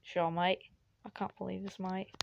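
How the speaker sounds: lightly put-on British-Australian accent. Player resuming the video's accent bit, in mock British. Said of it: "I'm not talking British anymore".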